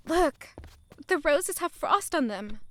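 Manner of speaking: bright excited call; excited look; delighted exclaim. Acted. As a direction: point it out with delight. Excited at frost on roses.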